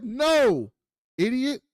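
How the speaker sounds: imitating a sassy teenager; bratty teen girl. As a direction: talk down to him like a cheeky kid. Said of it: "She's like".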